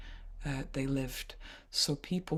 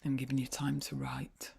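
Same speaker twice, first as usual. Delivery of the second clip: whispering; 4 dB quieter than usual. Real, not acted. Whisper while class writes.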